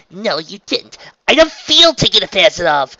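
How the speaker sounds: high, loud protest; insistent denial. A narrator's reading. Trixie denies being taken advantage of, insisting. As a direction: argue back with rising force. The two quarrel over blame.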